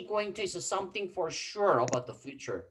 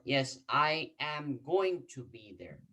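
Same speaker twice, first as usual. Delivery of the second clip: slow demo answer; slower than usual. Shown as a demonstration. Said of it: "two different way to answer".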